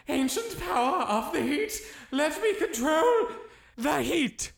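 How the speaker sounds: high, loud chanted spell; spell incantation. Acted. Repeats spell louder.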